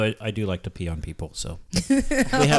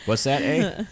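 put-on Canadian accent. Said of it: "They sound Canadian".

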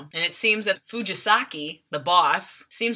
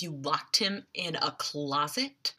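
hushed question; 3 semitones lower, 7 dB quieter, slower than usual. Retold or imitated. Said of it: "Logan goes".

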